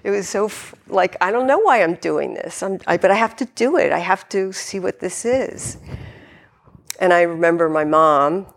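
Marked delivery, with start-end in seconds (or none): 1.2-5.8 higher, slightly hurried anxious self-talk; fretting under your breath; anxious inner voice. Retold or imitated. A tender beginner anxiously justifying her own practice.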